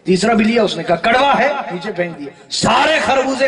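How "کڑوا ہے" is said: mock disgust. Tester rejecting melon again.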